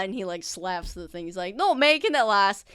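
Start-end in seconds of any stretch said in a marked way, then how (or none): 1.5-2.6 louder, higher, proud; hammy orc bragging loudly; loud boastful orc. Acted. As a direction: boast about lifting it.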